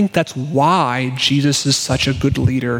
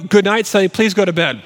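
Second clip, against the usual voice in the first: higher, exasperated parent's holler; mock yell down the hallway to a child; re-enacted plea for bedtime; calling back; 6 semitones higher than usual. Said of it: "through hallways, yelling".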